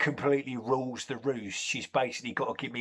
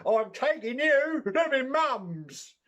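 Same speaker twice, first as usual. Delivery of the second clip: very high, hammed-up scream at the cat; high-pitched comic screamed rant. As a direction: shriek it in mock agony and outrage. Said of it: "made me scream".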